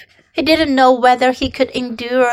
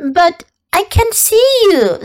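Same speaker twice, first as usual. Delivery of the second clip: surprised; 10 semitones higher, 3 dB louder than usual. Acted. Startled Wilbur calls out.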